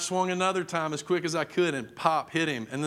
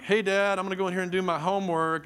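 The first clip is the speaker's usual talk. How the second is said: high, quick breezy cover-up; acting casual; 5 semitones higher, 3 dB louder, faster than usual. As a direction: rush past sounding innocent. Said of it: "and I'm like".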